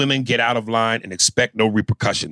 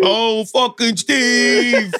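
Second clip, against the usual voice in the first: laughing mock whine; 10 semitones higher, much slower than usual. Real, not acted.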